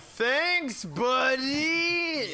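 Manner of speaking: drip sarcasm on it; sarcastic thanks. Real, not acted. Sarcastic thanks after bad roll.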